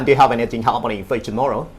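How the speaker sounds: casual, run-together Australian English; Australian accent demo. Shown as a demonstration. Teacher shows host field speech, Australian accent demo. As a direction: ask it in everyday Australian intonation. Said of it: "Contohnya begini".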